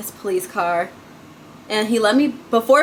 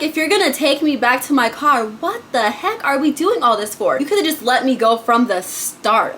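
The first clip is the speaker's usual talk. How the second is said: raised pitch, mildly indignant complaint; exasperated inner rant; 2 semitones higher than usual. Retold or imitated. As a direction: vent silent disbelief at the officer. Retelling exasperated thoughts at officer.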